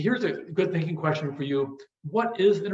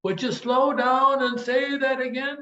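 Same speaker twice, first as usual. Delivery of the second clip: higher, slow Georgia drawl; mock Southern drawl; 8 semitones higher, 3 dB louder than usual. Lecturer imitating Georgians who ask him to slow down, slow Southern drawl. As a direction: drag it out like a Georgian asking you to repeat. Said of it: "I get tired of them saying".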